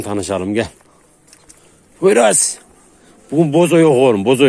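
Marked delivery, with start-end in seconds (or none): 2.0-2.6 calls the dog's name out high and loud; calling the dog. Real, not acted. Owner calling his dog over, high and loud. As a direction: sings out the name to get the dog's attention.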